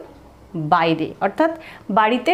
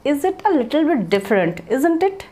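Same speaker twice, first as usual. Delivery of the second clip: slow teaching read; 4 semitones higher, much slower than usual. Shown as a demonstration. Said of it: "তো বলবো".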